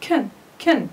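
كن said short with a schwa, kən; weak can, kən. Shown as a demonstration. Teacher drills the weak كن for the students. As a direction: clip كن to a quick kən. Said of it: "we pronounce it".

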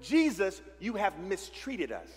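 a hint of a reproachful mother; lightly voiced hurt mother, slowing down. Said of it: "she has the mother tone".

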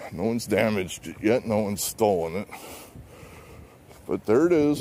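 winded while walking; out of breath. Real, not acted. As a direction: talk between breaths, winded. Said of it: "I'm already out of breath".

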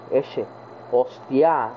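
Spain accent with a hushing S; Spanish accent. Shown as a demonstration. Showing the accent in España, Spain accent. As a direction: imitate Spain's thick "sh"-like S. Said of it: "en España el acento es".

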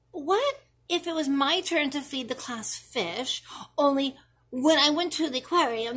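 put-on a child spinning what-ifs for mom; worried child.

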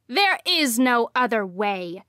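loud outburst; exploding. Acted. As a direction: burst out angrily. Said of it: "she exploded".

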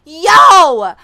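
loud drawn-out disbelieving cries; long loud wailing no; shocked shouting. Real, not acted. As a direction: holler no in stunned disbelief. Shocked by twins.

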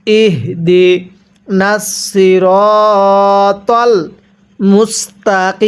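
slow, drawn-out ইহ দি নাসিরতল মুস্তাকিম; model recitation. Shown as a demonstration. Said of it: "আমার সাথে পড়ুন".

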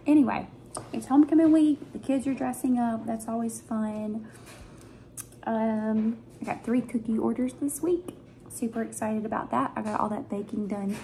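eating between words; talking while chewing. Real, not acted. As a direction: mouth partly full. Seen 0: Bites food at -2.0 and 5.2; chewing between phrases.

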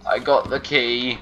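slow triumphant. Real, not acted.

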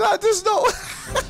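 laughing in disbelief; annoyed laugh. Real, not acted. Laughs after dying.

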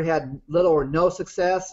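"no" given slight extra emphasis; stress on "no". Real, not acted. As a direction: lean a little on the word "no". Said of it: "I put the emphasis on no".

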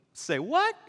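high-pitched, sudden double take; incredulous. Acted. David overhearing the soldiers, incredulous. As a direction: pipe up in mock disbelief. Young David reacts to reward talk.

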